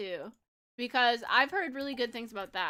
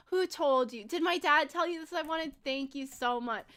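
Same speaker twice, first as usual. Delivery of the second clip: mildly hammed-up delight; rehearsed gushing gratitude; 3 semitones higher than usual. Practicing thanks to Grandma for a pretend gift, mildly gushing. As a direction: act amazed by the present, slowing at the end. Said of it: "Pretend your grandma just gave this".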